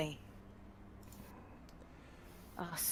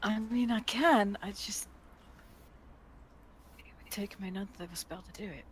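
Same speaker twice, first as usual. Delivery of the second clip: higher, soft hesitant voice; unsure offer, higher and quieter; character voice; 9 semitones higher, 5 dB quieter than usual. Acted. Character voice, reluctant healer.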